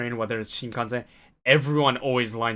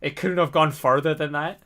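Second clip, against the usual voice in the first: higher, slowed mock lament; wry disappointment; 4 semitones higher, 4 dB louder than usual. Grumbling to himself that the politeness stopped there, slow wry disbelief. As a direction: drag it out like a let-down joke. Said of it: "And I was like".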